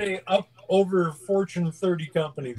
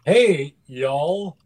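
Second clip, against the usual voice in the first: hammy Southern drawl greeting; Southern accent; 3 semitones lower than usual. Pretend. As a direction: lay on a fake Southern accent. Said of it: "That was terrible, John. Work on that".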